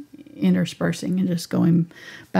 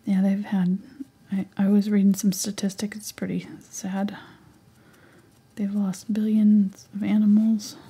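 whispering; 2 semitones higher than usual. Real, not acted. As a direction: whisper as you paint. Whispers through the stream.

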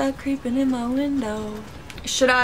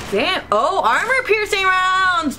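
excited laughing find; 9 semitones higher, slower than usual. Real, not acted. Finds rare ammo.

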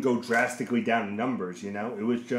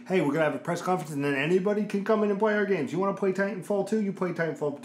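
mock hype announcer; 7 semitones higher, faster than usual.

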